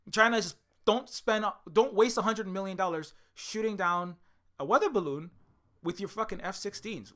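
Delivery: hammed-up lecture from an annoyed neighbour; mock scolding China.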